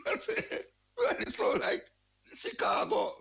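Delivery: words breaking up with laughter; laughing. Real, not acted. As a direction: talk through real laughter, high-pitched. Laughs while comparing to Chicago.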